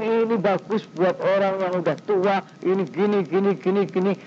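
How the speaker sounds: a hint of a chattering medicine seller; salesman patter. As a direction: rattle off a repetitive mock pitch. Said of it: "salesman-nya yang ngomong tuh".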